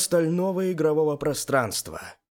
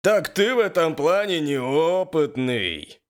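high, loud teasing character voice; Yuri jeering; 6 semitones higher, 5 dB louder than usual. A narrator's reading. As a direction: needle him loudly in a higher voice. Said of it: "подал голос Юрий". (громко подначивая)

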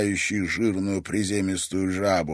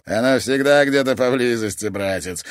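smirking; 2 semitones higher, 4 dB louder than usual. Acted. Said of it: "ухмыльнулся толстяк".

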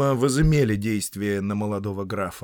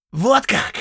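loud, high snap; angry retort; 12 semitones higher, 6 dB louder than usual. Acted. Count snapping at the prisoner, loud and high. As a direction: jump to your feet.

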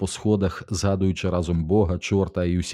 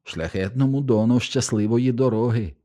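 with relief; 5 semitones higher than usual. Acted. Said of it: "з полегшенням сказав".

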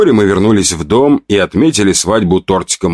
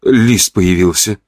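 surprised; 3 semitones higher than usual. Acted. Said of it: "удивилась женщина".

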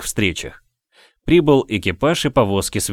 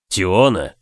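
raised voice. A narrator's reading. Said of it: "Он всё же повысил на неё голос".

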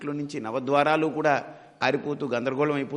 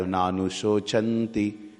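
very slow, low Sanskrit recitation; scriptural quotation; 5 semitones lower, much slower than usual. Acted. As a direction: recite it as verse, drawing out the last syllable. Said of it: "అందుకనే కృష్ణుడు అంటాడు".

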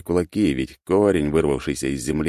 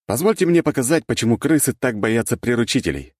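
character voice; 7 semitones higher, 4 dB louder than usual. A narrator's reading. Character addresses the court.

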